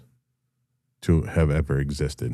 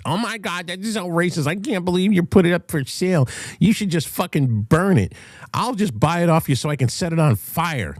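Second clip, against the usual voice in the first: much higher, whiny mock-outraged voice; mocking offended commenters; 14 semitones higher than usual. Mocking online commenters upset over the flag guitar, in a much higher whiny voice. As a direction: ham up the pearl-clutching of the comment section. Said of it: "the fucking meltdown from all the little soy boys in the fucking comments".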